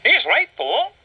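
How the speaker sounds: a hint of a friendly stone. The speaker backs the dragon, lightly voiced.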